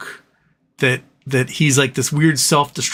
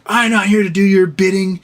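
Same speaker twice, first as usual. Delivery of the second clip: mock snooty brush-off; 6 semitones higher, 3 dB louder than usual. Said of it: "And she was like".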